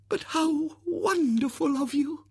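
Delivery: high, slow, gushing lady's voice; adoring spinster. Acted. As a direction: gush with sentimental admiration. Miss Rubina adoring.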